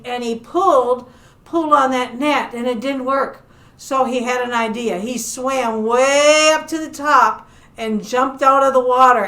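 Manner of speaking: lively, animated storytelling; story narration for children. Acted. Librarian telling children about a shark among fish, animated storytelling. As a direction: tell it to little listeners with playful emphasis.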